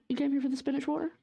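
mock disbelief. Teasing viewers about spinach water.

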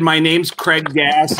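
slow, emphatic "My name's Craig Gass"; deliberate reintroduction. Retold or imitated. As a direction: draw out "Craig Gass" after clearing your throat. Repeats after clearing his throat.

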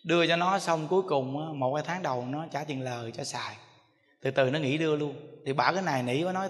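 normal talking voice

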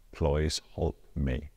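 "Please help me" read as spelt, like "ploys holp me"; phonetic reading. Shown as a demonstration. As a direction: say "Please help me" slowly, with oy and oh vowels. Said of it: "me writing something phonetically".

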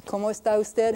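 Cómo está usted run together as one phrase; Spanish at natural speed. Shown as a demonstration. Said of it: "one or two more examples".

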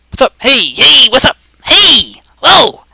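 high, loud hyped greeting; shouted hello. Pretend. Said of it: "that's how I say hello".

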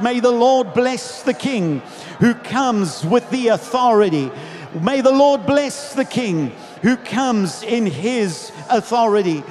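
emphatic, ringing proclamation; crowd's shout. Retold or imitated. Others in the crowd bless the King, proclaiming. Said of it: "Others would shout".

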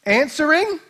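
slow, laughing sarcastic jab; a light mocking trash talk; mocking taunt. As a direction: tease the rivals with a smirk. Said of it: "He says / trash talk".

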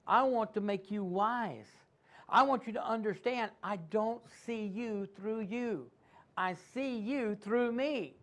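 slow, gentle reassurance; voicing God, tender. Preacher voicing God reassuring his people, slow and gentle. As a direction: let each promise land slowly and kindly. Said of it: "then what God's saying is".

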